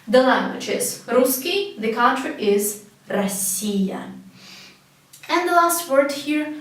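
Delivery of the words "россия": "Россия" as ra-SSI-ya; correct A vowel. Shown as a demonstration. Teacher summing up language versus country, "Россия" said ra-SSI-ya. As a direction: open A, then lean on "си" in "Россия". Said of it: "pronounce A because O here is not stressed".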